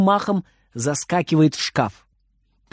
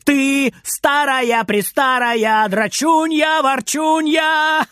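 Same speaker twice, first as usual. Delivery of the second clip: high, slow, drawn-out taunting chant; teasing taunt; 10 semitones higher, much slower than usual. Acted. Boy chants insults to provoke his grandma. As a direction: stretch each insult out to provoke her.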